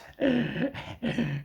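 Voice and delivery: high wheezing laugh; real laugh. Real, not acted. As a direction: burst out laughing mid-sentence. Amused by his own tale.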